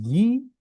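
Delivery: ই pushed high with pressure; stressed ই. Shown as a demonstration. Teacher pressing the ই sound for learners. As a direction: press out ই with a yah feel. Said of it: "ই, একটু চাপ দিতে হবে।".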